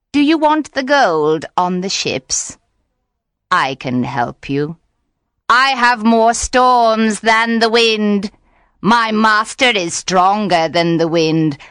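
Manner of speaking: lightly voiced coaxing witch; sly witch. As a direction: tempt him with storms and gold. Witch offers storms.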